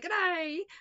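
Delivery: botched Australian accent morphing into a loud, high, hyper Southern shout; a pop star. Shown as a demonstration. Vlogger showing how her accent goes wrong, hyper shouted twang. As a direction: try Australian and slide into hyper pop-star twang. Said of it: "if I try British or an Australian accent, I slowly morph into, uh, a very hyper pop star".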